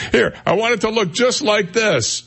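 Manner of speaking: high, laughing mock customer; giggling as the customer. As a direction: laugh through the customer's request. Laughs while voicing the customer.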